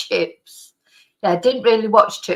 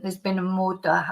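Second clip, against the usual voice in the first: amateur Scottish impression of a TV detective line; attempted Scottish accent; 2 semitones lower, 6 dB quieter than usual. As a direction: have a go at a Scottish accent, badly. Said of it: "I can't do the accent".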